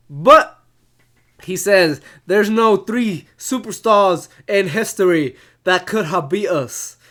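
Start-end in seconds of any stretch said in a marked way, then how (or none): 2.2-7.0 amateur English accent impression; lightly done English accent; attempted English accent. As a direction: put on a rough English accent. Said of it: "my best English accent I could do".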